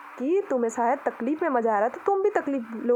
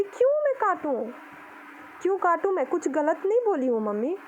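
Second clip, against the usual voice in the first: higher-pitched, pushing back at mum; retold indignant protest; 4 semitones higher than usual. Daughter refusing her mother's plea, indignant protest.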